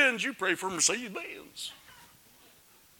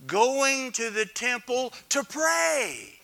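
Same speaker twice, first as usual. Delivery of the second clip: preaching shout; 5 semitones higher, 4 dB louder, slower than usual. Real, not acted. Preaching with rising force.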